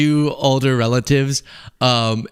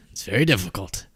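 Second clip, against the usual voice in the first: put-on Trump accent; 4 semitones lower, 6 dB quieter than usual. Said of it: "I've lost my Trump accent".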